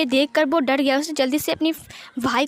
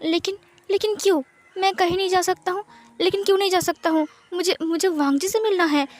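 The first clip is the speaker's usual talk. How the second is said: higher, pleading, rushing; distressed protest; 4 semitones higher than usual. Acted. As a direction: protest desperately, voice rising. Son forbidden to leave room.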